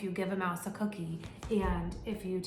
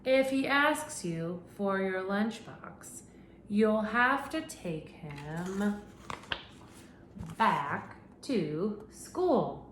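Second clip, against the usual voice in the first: very slow, drawn-out ending; slow storybook finish; reading to children; much slower than usual. Acted. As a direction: stretch out the last line of the story. Reads the story's closing line.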